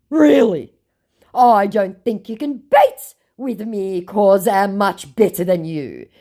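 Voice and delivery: slow, high, loud scammer boast; mocked scammer. Scammer boasting to the baiter, mocking voice. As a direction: mimic the scammer's laboured bragging. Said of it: "my scammer said".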